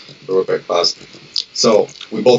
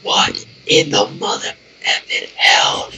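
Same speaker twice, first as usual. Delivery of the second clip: shocked friend; 12 semitones lower, slower than usual. Retold or imitated. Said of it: "runs up and said".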